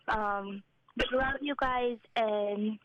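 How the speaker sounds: choked up, sighing before the apology; emotional. Real, not acted. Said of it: "I get a little emotional".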